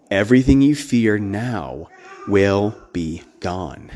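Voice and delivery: slow, low, earnest divine promise. Retold or imitated. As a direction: say it slowly, low and earnest, like a final assurance. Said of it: "I felt like God was earnest".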